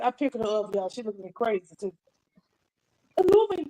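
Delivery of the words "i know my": high, sweet put-on greeting voice; high sing-song greeting. Vlogger coos a greeting to her YouTube family, high and sweet. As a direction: coo it up high like a cartoon host.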